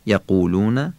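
firm, emphatic qaf in یقولون. Shown as a demonstration. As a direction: say یقولون with a strongly pronounced q. (قافِ محکم در یقولون)

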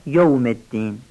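یوم wrongly rounded to "yo-um"; mispronounced fatha. Shown as a demonstration. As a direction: say یوم الدین with an o after the y.

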